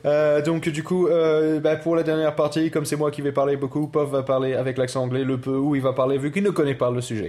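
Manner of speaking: put-on French with an English accent. Explaining the next part to listeners, English accent.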